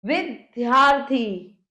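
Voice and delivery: विद्यार्थी sounded out with a held yaa; long आ sound. Shown as a demonstration. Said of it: "आ की ध्वनि आएगी". (विद्यार्थी में आ की लंबी ध्वनि)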